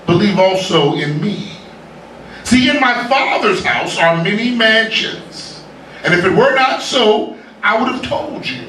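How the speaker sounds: slow, measured reading of scripture; solemn scripture reading. Acted. Preacher reading Jesus to the congregation, slow and solemn. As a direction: let each phrase land slowly and gravely.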